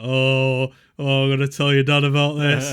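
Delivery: loud, gleeful mock crowing; going off. Dad's mate threatening to tell dad, imitated crowing. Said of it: "proper going off about this".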